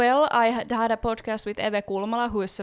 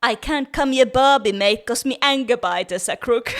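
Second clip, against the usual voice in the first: broad mock Australian accent again, louder; hammed-up textbook Australian accent on request; 2 semitones higher, 7 dB louder than usual. Shown as a demonstration. Co-host asks for it again, Australian accent. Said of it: "One more time, please".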